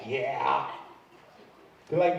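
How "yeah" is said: put-on sullen kid. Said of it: "He's like".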